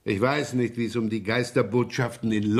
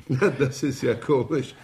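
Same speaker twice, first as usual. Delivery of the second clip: mock-incredulous no. Inspector doubting the constable, mock disbelief. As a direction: feign disbelief at the answer.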